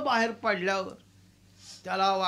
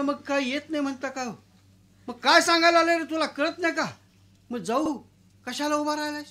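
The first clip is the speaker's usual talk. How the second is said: impatient scold; 5 semitones higher, faster than usual. Acted. Anna scolds peon.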